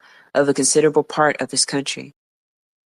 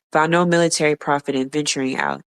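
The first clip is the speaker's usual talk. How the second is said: hoarse voice. Real, not acted. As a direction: voice giving out, hoarse. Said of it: "Sorry, losing my voice".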